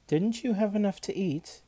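high, loud, incredulous question; cook's challenge. A narrator's reading. Cook questions Olivia.

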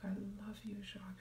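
soft, tender whisper to yourself; loving whisper. Shown as a demonstration. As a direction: whisper it like you mean it. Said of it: "if your name is Jacques".

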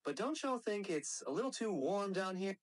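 drawling Southern trash talk; Southern American character; Southern US accent. Shown as a demonstration.

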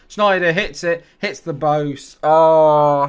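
real loud burst of excitement; excited shout. Real, not acted. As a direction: shout it out as it rings off the woodwork. Shot hits the post live.

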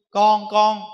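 loud pleading call of a father. Acted. Father in the underworld calls his dead sons loudly. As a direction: cry out to the lost sons.

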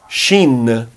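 Shin with a clear sh; Shin demo. Shown as a demonstration. Teacher contrasts Shin with Sin. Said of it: "vai emitir o som de S H junto".

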